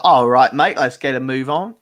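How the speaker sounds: imitating a chivvying Cockney trainer. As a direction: put on a Cockney accent, hitting the opening hard. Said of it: "my personal trainer is Cockney".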